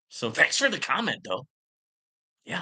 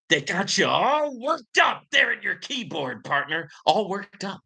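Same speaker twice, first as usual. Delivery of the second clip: taunting shout; 5 semitones higher than usual. Real, not acted. Taunting commenter, voice rising.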